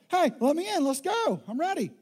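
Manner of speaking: playfully impatient husband at the door; eager mock call.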